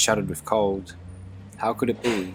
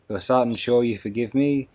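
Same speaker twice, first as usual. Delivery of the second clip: put-on a touch louder, begging old soldier; pleading; 3 semitones higher, 3 dB louder than usual. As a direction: plead for forgiveness, a little louder. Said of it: "he asked pleadingly".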